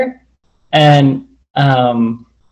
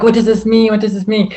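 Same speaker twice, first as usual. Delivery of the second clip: retold panic; 7 semitones higher than usual. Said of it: "I was freaking out".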